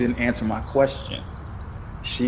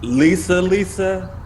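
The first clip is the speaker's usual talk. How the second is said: shocked disbelief; 6 semitones higher, 4 dB louder, slower than usual. Acted. Stunned by old fiancée news.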